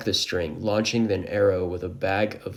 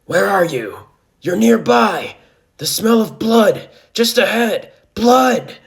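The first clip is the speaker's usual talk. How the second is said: loud, high monster cries; snarling beast; 13 semitones higher, 11 dB louder, slower than usual. A narrator's reading. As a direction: snarl like a beast hunting by scent. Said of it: "chasing after the group and snarling".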